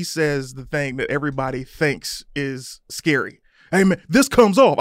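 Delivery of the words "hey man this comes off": raised, higher mock challenge; loud re-enacted confrontation; retold screaming argument. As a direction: imitate someone squaring up in a row. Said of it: "I'm screaming at this point".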